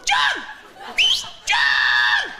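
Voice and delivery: loud high call of John; shouting across the road. Retold or imitated. Calling out to a friend across the road, a loud shout. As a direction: call him from across the street.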